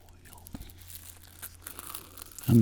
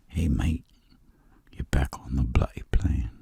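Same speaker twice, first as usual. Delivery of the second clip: British attempt sliding toward Australian; bad British accent; 5 dB louder than usual. British official sending a traveler back, bad British accent. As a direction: do a badly imitated British official. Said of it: "I can never do the British accent good".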